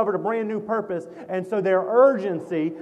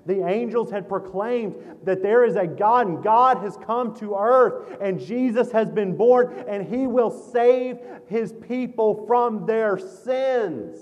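rising, louder preacher's proclamation; preaching at full force; 5 semitones higher, 3 dB louder than usual. Acted. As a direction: proclaim the good news with swelling fervor. Preaching climax.

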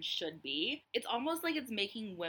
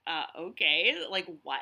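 retold stunned disbelief; shocked; 6 dB louder than usual. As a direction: react as if you can't believe what you heard. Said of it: "I was so shocked".

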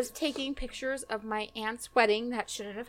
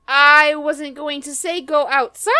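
slow, loud, higher comeback; exasperated retort; 4 semitones higher, 6 dB louder, slower than usual. Retold or imitated. Photographer retelling her comeback at the wedding, exasperated. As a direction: spell it out loudly, thoroughly exasperated. Retold quarrel, snapping back.

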